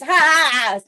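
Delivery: real laughter breaking in; laughing mid-line. Real, not acted. Laughs mid-line while acting.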